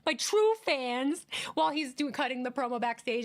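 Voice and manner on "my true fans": mock whiny wrestler. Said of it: "It's stupid".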